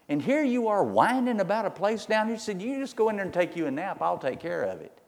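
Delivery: high mocking queen's scold; mock him from up high, then take charge; scornful Jezebel. Queen scolds the whining king, high and scornful.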